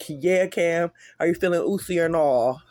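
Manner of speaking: loud mocking taunt. Real, not acted. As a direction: jeer at him, loudly. Taunting the victim.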